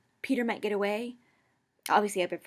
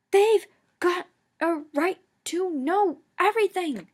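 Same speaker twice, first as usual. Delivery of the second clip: loud, high, slow roar; 11 semitones higher, 9 dB louder, slower than usual. A narrator's reading. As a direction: roar it out while struggling. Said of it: "Remus roared".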